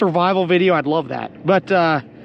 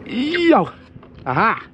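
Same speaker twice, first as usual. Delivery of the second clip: excited shout; 7 semitones higher, slower than usual. Real, not acted. Finally gets skin off.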